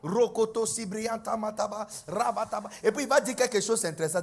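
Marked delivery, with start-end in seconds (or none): 0.0-2.7 quick babbled tongues, lightly voiced; mock speaking in tongues. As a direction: mutter tongues while doing chores. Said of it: "Et puis, en même temps". (parler en langues en faisant autre chose)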